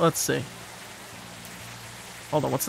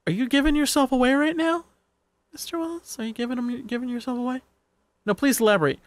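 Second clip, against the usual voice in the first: mock-suspicious, much higher; teasing high; 8 semitones higher than usual. Real, not acted. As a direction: tease him in a high sing-song.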